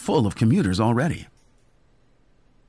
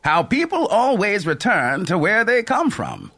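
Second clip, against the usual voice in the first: higher, dreamy, slowing at the end; musing old conductor; 9 semitones higher than usual. A narrator's reading. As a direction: let the idea drift wistfully. Mel muses on travel.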